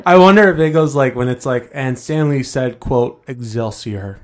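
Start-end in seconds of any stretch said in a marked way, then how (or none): 1.7-4.2 slow, dry reading voice; dry audiobook narrator. Retold or imitated. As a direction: read it dead dry and slow. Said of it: "It's just really dry".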